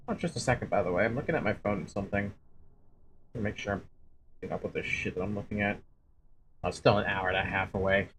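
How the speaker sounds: quiet aside. Real, not acted. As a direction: mutter to yourself while checking the phone. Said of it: "aside while checking phone".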